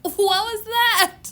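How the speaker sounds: high, slow, laughing question. Retold or imitated. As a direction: ask it while cracking up. Teller's retold reaction.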